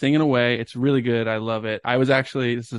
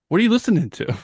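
high-pitched imitation of a call from the next car; mock yell, pitched well up; retold yell; 9 semitones higher, 4 dB louder, faster than usual. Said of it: "they yell, they're like".

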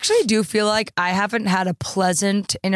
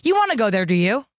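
put-on American accent with a British lilt; British inflection. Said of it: "accent with British inflection".

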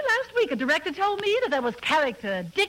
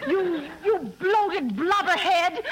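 indignant insult; slower than usual. Acted. Insulting Costello.

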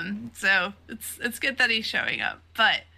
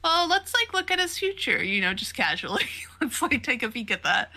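fortune teller; 4 semitones higher than usual. Retold or imitated. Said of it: "an old fortune teller lady".

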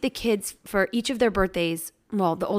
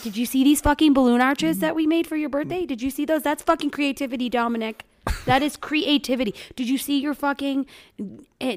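exasperated rant; 6 semitones higher than usual. Retold or imitated. Mom ranting at birthday son.

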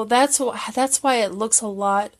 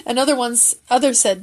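ordinary delivery

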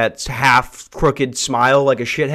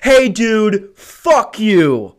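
angry yell; 5 semitones higher, much slower than usual. Acted. Comic yelling at the slow customer, angrily. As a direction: bark it at the guy.

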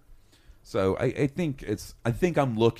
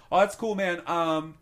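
much higher, goofy self-imitation; mock nonchalant reply; 9 semitones higher than usual. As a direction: play it dorky and content. Imitating himself answering friend.

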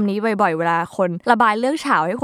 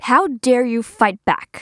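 scolding parent; 2 semitones higher, 4 dB louder, much slower than usual. Pretend. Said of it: "พ่อแม่ก็จะพูดว่า".

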